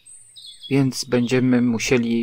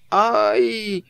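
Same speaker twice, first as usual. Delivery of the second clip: high-pitched yelp of pain; pained cry; 10 semitones higher, 3 dB louder than usual. A narrator's reading. Rabbit tugs stuck Pooh's paw, pained cry. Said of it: "krzyknął Puchatek".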